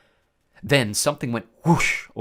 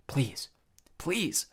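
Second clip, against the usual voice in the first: quiet prayer; 4 semitones higher, 5 dB quieter than usual. A narrator's reading. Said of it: "prayed silently".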